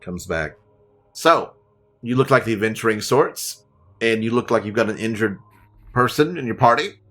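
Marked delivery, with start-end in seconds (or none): 1.1-7.0 gnome voice. Acted. Gnome voice returns.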